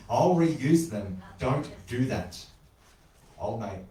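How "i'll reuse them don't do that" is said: "I'll reuse them. Don't do that." slow and forceful; weight each word of "Don't do that"; stressed words. A narrator's reading. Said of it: "I stressed the words".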